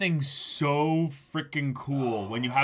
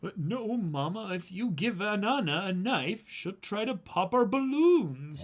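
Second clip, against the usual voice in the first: put-on child voice; 6 semitones higher than usual. Voicing child in manga.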